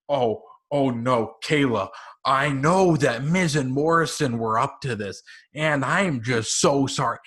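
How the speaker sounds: lightly imitating a big guy's stiff, overdone sorry; mocking Braun Strowman. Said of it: "And Strowman was like".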